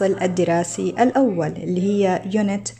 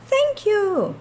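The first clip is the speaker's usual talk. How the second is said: higher, sweet thank-you in character; girl's thank-you; 10 semitones higher than usual. Acted. The girl thanking Sfroota, in a higher child's voice.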